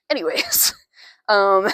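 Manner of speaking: a quick sheepish whisper; a real hushed aside after swearing; embarrassed whisper. Real, not acted. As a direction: whisper it to move past the slip. Covering up after swearing on camera.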